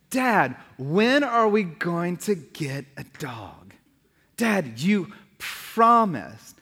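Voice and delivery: slow, drawn-out imitation of a child; nagging kid. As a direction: stretch it out like a long-suffering kid. Acts kids nagging for years.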